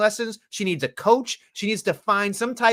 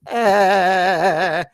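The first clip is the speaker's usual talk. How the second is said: short, louder, nervous grunt; mock nervous grunt; 6 dB louder than usual. Host mimicking Zoe looking shook on the mic, mock nervous grunt. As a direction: blurt a little spooked grunt. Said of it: "She's ready to be like this".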